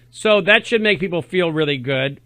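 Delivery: dry sarcastic remark. Real, not acted. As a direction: say it with mock approval. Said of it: "I'm being sarcastic".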